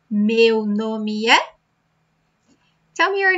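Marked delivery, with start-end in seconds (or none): 0.1-1.4 slow practice line. Shown as a demonstration. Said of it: "so practice".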